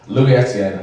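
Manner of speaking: light French accent on the name. Shown as a demonstration. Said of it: "say it in a French accent".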